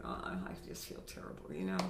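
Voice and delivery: breathy, weary groan of feeling ill; drained, sick-sounding moan; sick, worn-out voice. Shown as a demonstration. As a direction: sound like you've got the flu. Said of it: "And you can even go down to what's called a glottal fry".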